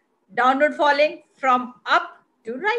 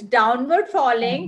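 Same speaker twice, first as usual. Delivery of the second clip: slow, deliberate model answer; 2 semitones lower, slower than usual. Shown as a demonstration. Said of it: "simply say that it is".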